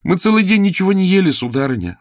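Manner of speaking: put-on high, fast hungry child's plea; hungry page complains to the lady, sighing; pitiful sighing child. A narrator's reading. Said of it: "вздохнула Ело".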